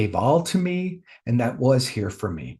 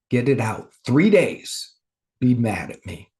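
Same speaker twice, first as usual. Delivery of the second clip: God. Retold or imitated. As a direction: gently coax it out, steadily. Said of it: "that's God's voice".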